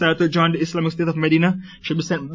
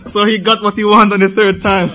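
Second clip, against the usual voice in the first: laughing; 2 semitones higher than usual. Real, not acted. Preacher laughing at the story.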